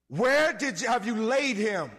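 loud, stern question to the mourners; Jesus asking angrily where they laid him; angry demand. Retold or imitated. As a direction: demand it with livid force. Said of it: "he was angry, livid".

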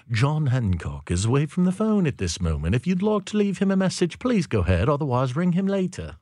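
lightly put-on British accent for a voicemail greeting; a hint of a polite British answering-service voice; imitating British voicemail. Host imitating a British voicemail greeting with a light British accent. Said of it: "like, a British man or a British woman".

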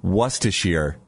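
Worcestershire said slowly, WUSS-tuh-sheer; believed correct pronunciation. Shown as a demonstration. Host settles on his version, careful Worcestershire ending in sheer. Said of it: "I believe it's".

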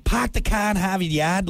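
put-on Boston accent. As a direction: imitate a Bostonian, dropping the r's. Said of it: "Boston got most annoying accent".

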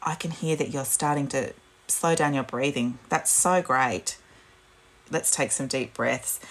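soft, slow reassuring voice; gentle praise. Shown as a demonstration. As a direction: coax them into slow breathing. Parent calming child.

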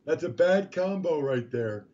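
hoarse from talking all night; rough, worn-out hoarse voice. Real, not acted. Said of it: "you get my voice this morning".

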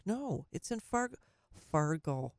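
Fargo said in a light Minnesota accent; a hint of a Minnesota accent on Fargo. Shown as a demonstration. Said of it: "That's my Minnesota accent".

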